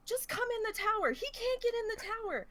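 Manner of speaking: retold urging. Retold teammate urging into tower.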